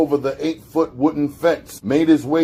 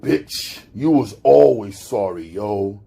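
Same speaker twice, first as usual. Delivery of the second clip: snapping; 4 semitones lower than usual. Acted. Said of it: "he snapped".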